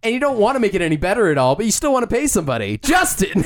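hammed-up sponsor pitch, rising to the name; brisk mock ad ending high; mock ad read. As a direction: sell it like a joke infomercial.

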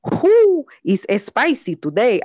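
put-on high whooping Latina accent, teasing. Host teasing a spicy listener letter, high Latina accent. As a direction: squeal the whoo, then purr spicy in a Latina accent. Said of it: "I really like doing that accent".

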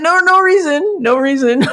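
high, giggly brush-off; high laughing no reason; evasive laughing denial. Retold or imitated. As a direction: laugh it off innocently. Dodging the CEO's question.

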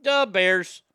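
put-on punchy Chicago sports-fan accent. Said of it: "Chicago's one of those fun accidents".

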